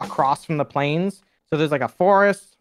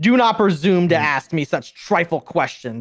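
unhappy, annoyed duck-like creature voice, slower; 2 semitones higher than usual. In a tabletop game, the talking sword rebukes a player's question: unhappy, annoyed sword voice. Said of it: "That duck is not happy".

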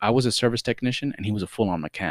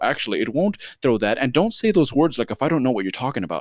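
mock defensive tone, higher; 3 semitones higher than usual. Retelling a guy's argument with the speaker's friend, acting out a defensive guy. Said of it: "he starts getting all like defensive".

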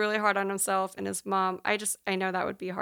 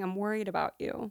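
mock-quiet murmur, said to herself; 5 dB quieter than usual. Recounting a moment where she is left alone downstairs after he runs upstairs, retelling a quiet aside. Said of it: "saying it quietly to herself".

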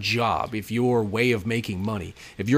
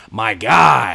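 booming, very loud call, guy drawn out; 9 dB louder than usual. Retelling a guy at the entrance calling out: imitating a loud call. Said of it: "real loud".

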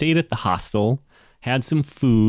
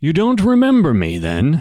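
amused chuckling, higher, louder, faster; 7 semitones higher, 5 dB louder than usual. A character turns to you and speaks, chuckling. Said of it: "he chuckles and turns to you".

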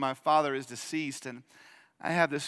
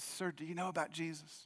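faint, very quiet, very soft, broken voice; 13 dB quieter than usual. Retelling what his dad said to a male nurse, in a put-on broken voice. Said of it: "looked at him through that broken voice".

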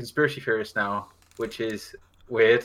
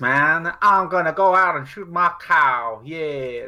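drawled, slow, pitched-up put-on American accent; 5 semitones higher, 3 dB louder than usual. Speaker imitating how people on a podcast talk, in a mock American accent. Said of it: "they talk like this".

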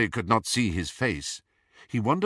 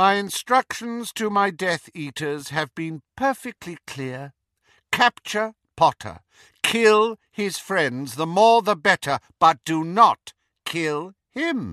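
high, clear dark lord voice; 6 semitones higher, 4 dB louder than usual. A narrator reads the lord's orders to Severus, high, clear voice. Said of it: "the flattened serpentine face, the pallor of him gleaming slightly in the semi-darkness. ... said the dark lord in his high, clear voice".

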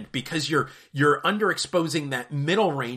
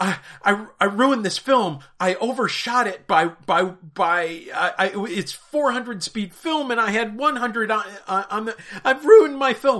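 put-on high panic, stammering over repeated words; 7 semitones higher, 4 dB louder than usual. Retelling a worried customer's words about ruined film: imitating a panicked woman. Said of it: "you could hear just the panic in her voice".

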